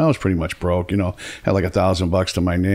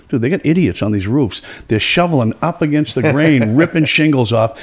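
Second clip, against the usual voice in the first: mock outrage, raised and animated; worked-up disbelief; 6 semitones higher than usual. Worker telling his boss about idiots on roofs, exasperated. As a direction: imitate an exasperated worker, pitch climbing.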